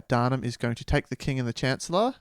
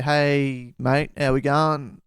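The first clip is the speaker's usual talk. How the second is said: put-on Australian accent; slower than usual. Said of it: "my Australian accent".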